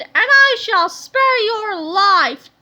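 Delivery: very slow, loud villain voice; grand villain offer. A narrator's reading. Melvin threatening the captain, very slow. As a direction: draw out the threat. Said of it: "he commanded".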